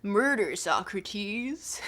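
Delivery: put-on laid-back surfer accent on "Murder, Socrates"; a light California surfer accent. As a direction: say it like a chill surfer dude. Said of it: "this accent for Euthyphro is peak".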